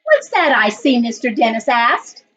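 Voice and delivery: put-on reading a picture book aloud to children; story narration. A narrator's reading. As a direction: tell it gently, like story time for the class. Teacher reads picture book aloud.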